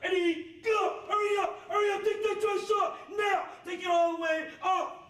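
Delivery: barked orders at full volume; drill sergeant shouting. Real, not acted. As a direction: yell it like a drill instructor. Drill instructor rushing recruit.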